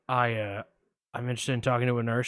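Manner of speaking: a hint of Buffalo Bill, low; creepy caller. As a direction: lurk low like a shady caller. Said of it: "I'm gonna play both parts".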